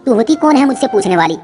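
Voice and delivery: angry retort. Acted. Mother-in-law snapping back at the questioning daughter-in-law, mild anger. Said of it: "मेरी सास उल्टा मुझ पर गुस्सा करने लगी".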